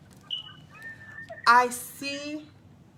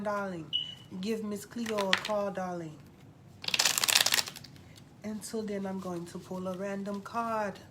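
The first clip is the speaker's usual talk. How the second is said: lightly put-on psychic reader, drawling darling; a hint of a hotline fortune teller; Miss Cleo psychic hotline voice; 5 dB quieter than usual. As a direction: play a late-night TV psychic selling readings. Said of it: "Thank you for calling, Miss Cleo".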